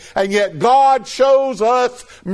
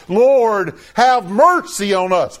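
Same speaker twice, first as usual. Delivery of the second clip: cried out plea; slower than usual. Retold or imitated. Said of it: "they cried out".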